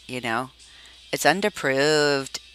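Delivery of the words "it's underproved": slow, attempted Liverpool accent. Shown as a demonstration. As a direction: try a rough Scouse accent, drawing it out. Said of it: "do a Liverpool accent".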